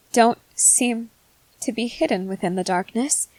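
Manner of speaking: broken phrases with long pauses; halting, transfixed awe. Acted. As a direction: grope for each word, unable to look away. Transfixed by stranger's glowing eyes.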